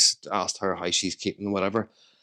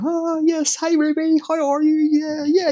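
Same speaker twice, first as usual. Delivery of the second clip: put-on much higher, sing-song voice for his little girl; daddy voice on the phone; 4 dB louder, slower than usual. A dad cooing down the phone to his young daughter, high and sing-song. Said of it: "putting on the whole daddy thing".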